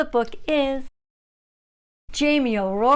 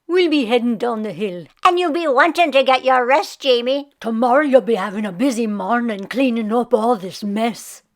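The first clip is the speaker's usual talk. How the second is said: cronies' goodbye; 5 dB louder than usual. Acted. Friends saying goodbye.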